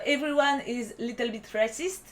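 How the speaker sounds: song title in a clumsy French-accented English accent; bad English accent. Real, not acted. French vlogger naming an English song title, clumsy English accent. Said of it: "mon accent anglais est dégueulasse".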